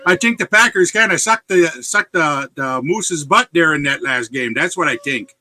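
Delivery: mock Yooper sports gripe; punchy Yooper rant, settling down; Yooper accent. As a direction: grumble in a put-on Yooper accent. Acted Yooper football rant.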